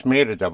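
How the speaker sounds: Mérida with the first syllable hit, MÉ-ri-da; stressed on the first syllable. Shown as a demonstration. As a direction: put the push on the Mé of Mérida. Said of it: "Without the accent, it would be".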